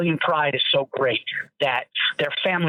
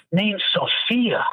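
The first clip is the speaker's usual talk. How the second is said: imitating dad; 4 semitones higher, much slower than usual. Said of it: "He goes".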